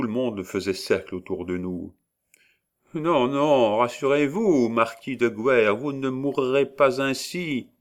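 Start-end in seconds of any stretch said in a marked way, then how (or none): 2.9-7.7 high, eerie prophesying hag; witch voice. A narrator's reading. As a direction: foretell it like a witch.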